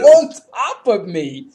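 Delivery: loud, high, drawn-out disbelief; loud incredulous confirmation; incredulous emphasis. Real, not acted. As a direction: hammer it home slowly and loudly. Incredulous echo of co-host's question.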